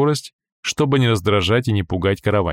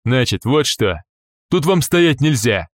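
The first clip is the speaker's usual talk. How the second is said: stern guard; 4 semitones higher, slower than usual. Acted. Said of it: "заявил вдруг охранник".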